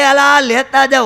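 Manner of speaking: loud, high call to departing friends; calling after them. Retold or imitated. Husband runs after his friends with food, shouting loud and high.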